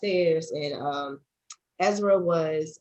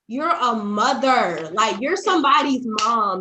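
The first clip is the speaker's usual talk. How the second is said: reliving hysterical laughter; 4 semitones higher, 7 dB louder, slower than usual. Retold or imitated. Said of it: "I started laughing hysterically".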